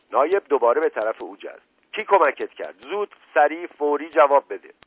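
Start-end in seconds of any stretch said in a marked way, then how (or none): 1.9-4.7 raised, pressing demand; urgent interrogation. Acted. Inspector pounces on the confessed killer, demanding urgently. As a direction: press him for an instant answer.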